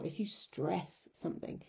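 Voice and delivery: emphasize the word stress. Shown as a demonstration. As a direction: make stress stand out from something. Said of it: "I'm doing it now".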